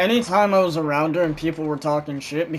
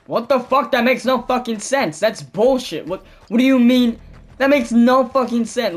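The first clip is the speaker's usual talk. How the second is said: agitated, higher-pitched mock outrage; pissed-off friend; 6 semitones higher, 4 dB louder than usual. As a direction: imitate someone pissed and disbelieving. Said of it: "he was pissed about it".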